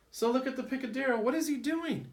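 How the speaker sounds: excited. Real, not acted. Teacher pointing at the picture.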